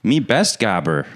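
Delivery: slow dumb caveman talk. Pretend. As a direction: grunt it like a caveman.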